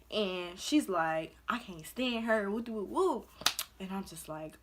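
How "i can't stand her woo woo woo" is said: lightly garbled mock of talking while eating; mouth-full imitation. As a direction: imitate someone talking through food. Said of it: "she got her mouth full".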